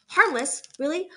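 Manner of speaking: can't quite believe it; doubtful surprise. A narrator's reading. Opossum doubts robot's claim.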